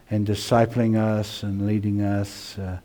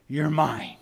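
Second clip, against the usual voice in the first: tender claim; 5 semitones higher, 3 dB quieter than usual. Acted. Shepherd claims the sheep, first take.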